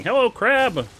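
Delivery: high, loud panicked greeting; terrified horror victim. Real, not acted. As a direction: shriek a scared hello. Crab attacks again.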